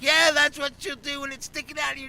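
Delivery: high, loud mock-exasperated retort; emphatic retort. Friend warning him about the stabber, high emphatic retort. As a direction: imitate a friend driving the point home loudly.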